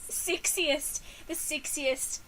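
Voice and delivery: "Sexiest" with the e tightened towards i; practised New Zealand vowel in "Sexiest"; New Zealand short e. Shown as a demonstration. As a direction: say "Sexiest" like "six-iest". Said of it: "word sexiest".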